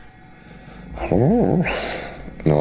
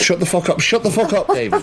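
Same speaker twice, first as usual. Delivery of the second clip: furious shout, pitched way up; angry yelling; 10 semitones higher, 3 dB louder than usual. Acted. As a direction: yell at him to shut up. Player yelling at David in character.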